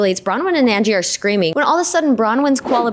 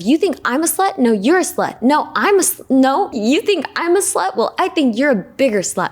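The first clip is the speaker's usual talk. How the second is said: higher-pitched imitation of a catty back-and-forth; mock bickering; 5 semitones higher than usual. Two women slinging insults at each other, mock bickering. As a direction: trade accusations in a hammed-up squabble. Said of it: "an absolute back and forth".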